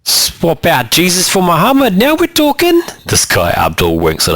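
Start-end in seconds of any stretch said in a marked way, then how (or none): 0.1-2.8 higher, cheeky joking voice; Abdul's wink. A narrator's reading. Abdul cracking a joke at the newcomers, cheeky higher voice. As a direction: toss it off as a sly joke.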